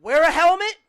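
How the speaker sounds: loud, high, rising call; proclaimed sign. Acted. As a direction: call it out like a big warning sign. Calling out an imagined sign.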